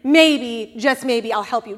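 wrong picture of Jesus toying with you, teasing; mock teasing God. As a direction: dangle the help, withholding. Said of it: "he's like".

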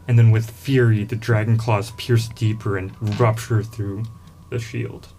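dramatic fantasy scene narration; epic narration. A narrator's reading. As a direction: paint the scene like a storyteller. GM narrates the dragon attack.

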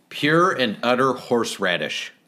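mock French accent. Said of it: "I am French".

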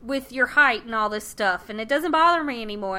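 high, eager and sweet, a touch too reassuring; eager Rose. Retold or imitated. Rose assures her boyfriend she's fine, high and eager. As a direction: chirp it brightly like naive Rose.

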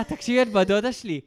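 retold shout. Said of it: "אני קורא".

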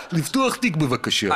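put-on light Russian accent in Hebrew; a hint of a Russian accent in Hebrew. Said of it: "אתה עושה מבטא רוסי?".

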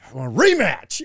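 mild mock yell; retold yelling. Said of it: "yelling it".

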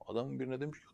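plain reading voice

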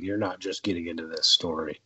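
a soft unvoiced whisper; muttered under his breath; whispered aside. Real, not acted. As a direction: drop into a half-whisper aside.

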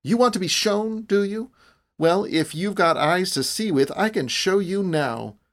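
high, fired-up challenge; defiant cry. A narrator's reading. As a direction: cry it out as a dare. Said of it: "and cried".

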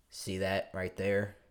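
lightly voiced old fan, taking his time; old Alabama fan. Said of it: "old Alabama fan next to me".

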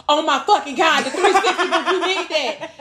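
high laughing outburst over the booth; retelling her panic about losing the booth, laughing. Retold or imitated. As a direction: squeal it out through laughter.

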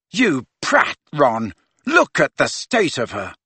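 sharp, angry scolding. Acted. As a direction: tell him off angrily. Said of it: "Ginny said angrily".

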